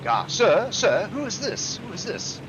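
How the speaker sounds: high, insistent schoolchild questioning; eager pupils. Retold or imitated. Schoolchildren ask the teacher about a big picture, eager imitation. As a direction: imitate excited pupils pestering their teacher. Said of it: "they would always ask me".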